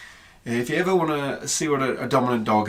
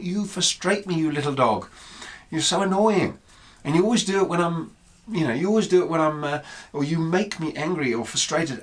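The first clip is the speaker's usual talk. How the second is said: mildly exasperated inner rant, raised pitch; retold frustration; 4 semitones higher than usual. Owner's thoughts about her annoying little dog, retold frustration. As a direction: grumble in mock annoyance at a pest. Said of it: "Because she was frustrating me".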